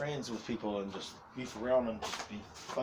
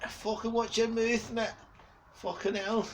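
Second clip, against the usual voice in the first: mock telling-off; 10 semitones higher than usual. Mock telling off a younger mate.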